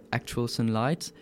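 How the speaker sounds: English game title in a French accent. Real, not acted. Interviewee naming a game to the host, French-accented English. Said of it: "magnifique accent anglais comme d'habitude".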